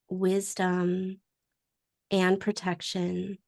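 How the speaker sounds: calm, unhurried meditation guide with long pauses; guided meditation. Acted. Host opening the circle for the gathering, guided meditation. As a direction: ease them gently into the breath, phrase by phrase.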